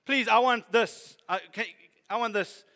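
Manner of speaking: loud, laughing plea; laughing and pleading. Acted. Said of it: "Abraham falls on his face laughing".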